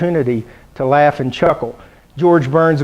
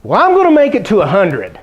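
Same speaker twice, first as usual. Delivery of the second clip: put-on proud old dad; 4 semitones higher than usual. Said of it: "he goes".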